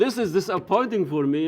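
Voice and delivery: real laugh breaking into the words; amused, disbelieving laugh. Real, not acted. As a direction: laugh through the line in disbelief. Interviewer laughs at the claim.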